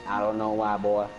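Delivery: put-on light Texas accent. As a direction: say it like a Texan. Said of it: "why I'm talking in the Texas accent".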